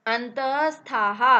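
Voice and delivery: slow, drawn-out Sanskrit recitation; recited like a sutra. Shown as a demonstration. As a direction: chant the sutra word slowly. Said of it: "अगर सूत्र बोलें तो".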